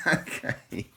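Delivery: high, loud laugh; burst of laughter. Real, not acted. Vlogger bursts out laughing after reading the quote.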